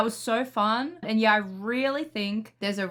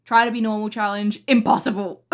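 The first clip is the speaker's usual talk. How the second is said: mock announcement; 6 dB louder than usual. Real, not acted. A joking announcement.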